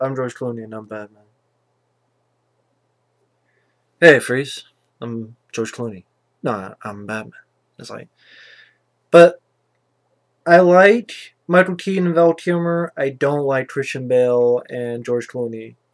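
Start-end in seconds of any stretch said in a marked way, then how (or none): 0.0-7.4 low, lazy, zero-effort hero voice. Mocking an actor who wasn't even trying as Batman: imitating George Clooney not trying. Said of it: "George Clooney wasn't even trying".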